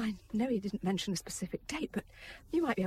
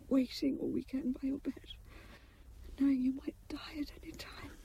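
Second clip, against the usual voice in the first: tearful whisper; 4 semitones higher than usual. Acted. Wife tearful at bedside.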